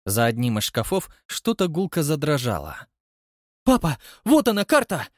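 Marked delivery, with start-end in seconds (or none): 3.6-5.1 put-on high, loud awed young voice; awed son. A narrator's reading. Son showing father the found map, awed. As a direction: gasp it out in awe. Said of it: "благоговейно произнёс Растопчин-младший".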